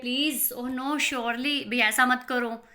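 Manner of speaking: slow, pleading, a touch anxious; a worried mother begging them to stop, mildly anxious; nervous protest. Acted. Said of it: "protesting nervously".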